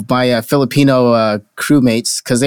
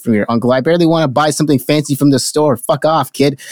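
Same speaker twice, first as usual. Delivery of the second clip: imagined brush-off. Retold or imitated. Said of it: "I didn't say that, but that's what I wanted to say".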